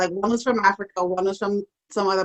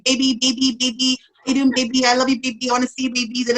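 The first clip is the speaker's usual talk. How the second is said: higher, repetitive chanting sweet-talk; mock lovesick suitor; 4 semitones higher, much faster than usual. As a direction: imitate a pestering admirer, lightly. Pestering online suitor imitated.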